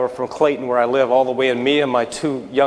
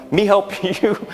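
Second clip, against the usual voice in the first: imitated broken English, pitched higher; higher-voiced imitation of a halting English speaker; 8 semitones higher, slower than usual. Stranger at the gas pump offers help, imitated broken English. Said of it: "even with the broken language".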